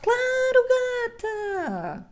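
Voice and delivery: very high sarcastic quip; sassy reply. Retold or imitated. Responde em voz aguda irônica. (resposta irônica bem aguda)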